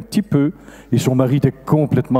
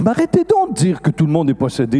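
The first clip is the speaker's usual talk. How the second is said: exasperated scolding; 4 semitones higher than usual. Retold or imitated. Priest scolding helpers seeing demons everywhere.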